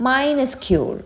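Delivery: drawn-out "Minuscule", starting high; pronunciation demo. Shown as a demonstration. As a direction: model "Minuscule" slowly for learners. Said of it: "pronunciation നോക്കാം".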